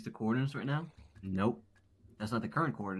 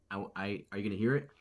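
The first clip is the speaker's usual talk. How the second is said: talking while chewing a bite; words round a crunchy mouthful; eating crunchy wrap. Real, not acted. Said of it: "I'm gonna take a bite".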